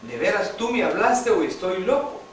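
heartfelt plea. Retold or imitated. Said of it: "con todo mi corazón y le dije".

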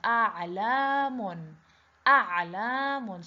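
"A'lamun" with the first a held long and slow; long vowel sound. Shown as a demonstration. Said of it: "long sound".

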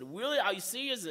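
high, bright-eyed "really?", pitch up in surprise; thrilled, hardly believing the offer; excited disbelief. Retold or imitated. Friend from Cap Haitien promises him a job, thrilled surprise. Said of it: "I was so excited".

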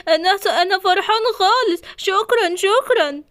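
thrilled by a surprise gift; delighted thanks. Acted. Toy thanks his friend for the present, high and delighted. Gift makes character happy.

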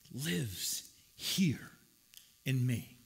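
hushed, intimate whisper. Real, not acted. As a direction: whisper it like a secret. Whispering about the Spirit within.

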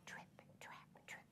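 tiny whispered hoofsteps; whispered trip trap. Shown as a demonstration. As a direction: whisper it like little feet. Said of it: "the smallest billy goat's really quiet".

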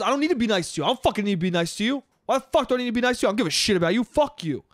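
rapid-fire indignant retort, acted out; mock aggressive tirade, words tumbling fast; retold aggressive rant. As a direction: imitate a man lashing out in a rush. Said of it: "he starts getting aggressive".

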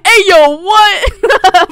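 loud, high, laughing exclamation; shocked laughing. Real, not acted. Player reacting to somebody in the chat, shocked and laughing. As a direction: cry out in amused disbelief.

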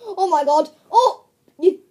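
laughing loud exclamation; excited shout. Real, not acted. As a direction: cry out, laughing. Cup wobbling on head.

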